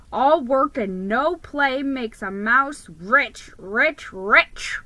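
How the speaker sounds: slow, loud, greedy chant of a motto; grandfather's motto. Retold or imitated. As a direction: savor each rich like money. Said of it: "his favorite saying is".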